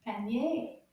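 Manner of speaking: quick, easy Panier. Shown as a demonstration. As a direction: say Panier briskly as one joined word. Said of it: "a little bit faster".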